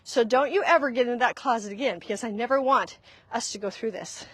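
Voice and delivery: quick, firm parent warning; brisk mock telling-off; old-school parental blame. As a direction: scold a child, mildly acted. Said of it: "this is the old school".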